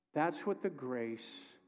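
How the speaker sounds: slow, soft, dying away to a whisper; fading to a whisper. Acted. Pastor comforting weary listeners, slow and fading to a whisper. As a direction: let the line sink into a whisper.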